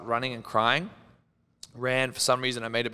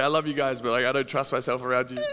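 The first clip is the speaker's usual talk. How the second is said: laughing. Real, not acted. Laughing confession to friend.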